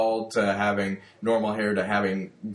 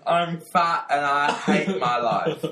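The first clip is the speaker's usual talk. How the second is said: Russell Crowe impression; 4 semitones higher, 3 dB louder, slower than usual. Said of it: "my Russell Crowe impersonation".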